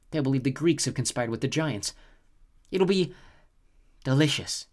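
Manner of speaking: a cruel goddess savouring her plan; cold snow goddess. A narrator's reading. Chione's threat.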